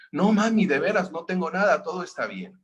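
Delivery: put-on a cornered kid insisting he's fine; child's fib. Niño acorralado miente otra vez. (un niño acorralado que miente)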